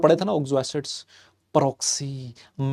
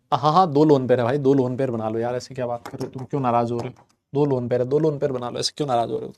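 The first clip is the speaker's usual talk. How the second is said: coaxing softly; 4 semitones lower, 4 dB quieter than usual. Real, not acted. Coaxing silent students.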